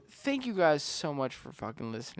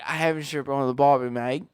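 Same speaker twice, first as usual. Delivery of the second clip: put-on Australian accent; 7 dB louder than usual.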